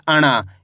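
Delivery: अणा with curled-tongue n, falling low; letter-sound demo. Shown as a demonstration. Teacher answers what we read, letter-sound demo. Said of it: "क्या पढ़ेंगे?".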